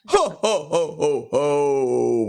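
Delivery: jolly Santa laugh, rising then dropping. Pretend. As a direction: laugh like Father Christmas. Christmas special, Santa laugh.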